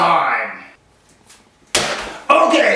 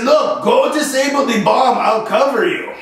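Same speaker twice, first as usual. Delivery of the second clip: put-on French Canadian accent; 3 semitones higher than usual. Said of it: "he was French, he was from Quebec".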